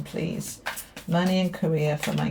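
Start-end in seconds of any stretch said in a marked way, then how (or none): 0.0-0.6 whispering. Real, not acted. Whispered aside while shuffling cards.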